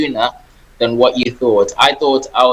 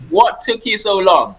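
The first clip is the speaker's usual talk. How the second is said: pitched up, playfully affronted demand; mock indignant; 8 semitones higher than usual. Guest recalling his first thought on being invited, mock indignant. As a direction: tease the host with a mock outrage. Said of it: "my first thought was".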